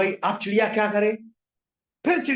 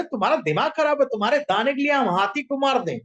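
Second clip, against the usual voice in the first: higher, quick indignant refusal; angry ant; 4 semitones higher than usual. Acted. Ant refusing the bird's demand, mildly angry and high. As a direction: refuse with mild, high-pitched outrage. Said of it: "चींटी ने भी बहुत गुस्से में मना कर दिया".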